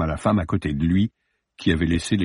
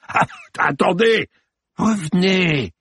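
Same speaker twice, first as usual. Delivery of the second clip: higher, calling after her; bawling; 10 semitones higher, slower than usual. Acted. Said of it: "brailla-t-il".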